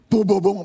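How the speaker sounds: loud thudding "boom" sounds; imitated banging. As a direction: pound out the booms vocally.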